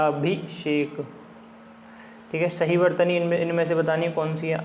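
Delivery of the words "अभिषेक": अभिषेक broken into slow parts, falling at the end; syllable by syllable. Shown as a demonstration. Teacher shows how it is written, syllable by syllable. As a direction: spell out अभिषेक by sound, part by part. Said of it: "अभिषेक ऐसे लिखा जाता है".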